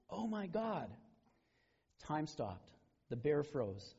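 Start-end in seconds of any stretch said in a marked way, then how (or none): 0.1-0.9 cries out. A narrator's reading. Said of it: "this atheist cries out".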